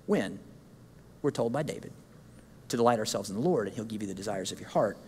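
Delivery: low, soft, intimate explanation; quiet earnest. Real, not acted. Preacher softly explaining the verse to the congregation, quiet. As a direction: lean in and say it softly.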